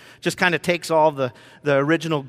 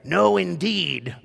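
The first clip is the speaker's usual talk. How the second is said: slow, measured repeat of an objection; firm refusal; much slower than usual. Retold or imitated. Elizabeth refuses the name, slow firm restraint. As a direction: draw out each word without shouting. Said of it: "and it's emphatic".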